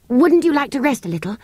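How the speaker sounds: put-on high, mildly solicitous girl; considerate. A narrator's reading. Girl offering the tired creature rest, considerate. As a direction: offer it with a touch of concern. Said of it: "asked Anthea considerately".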